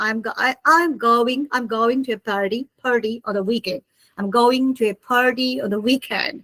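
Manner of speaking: on the weekend, said American style; American pronunciation of party; American accent. Shown as a demonstration. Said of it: "So American people".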